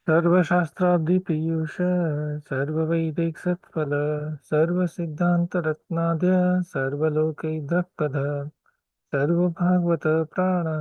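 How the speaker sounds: rapid, rhythmic Sanskrit chanting; fast prayer recitation. Acted. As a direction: rattle off the verses by heart.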